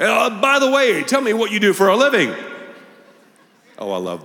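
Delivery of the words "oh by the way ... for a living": high, louder friendly curiosity; eager small-talk question; chatty curious neighbor. Retold or imitated. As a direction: neighbor asking the pastor about his job.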